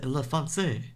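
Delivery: lightly hammed French; mock French accent. Caster mocks fancy French casting, mock French accent. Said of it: "French just sounds more fancy".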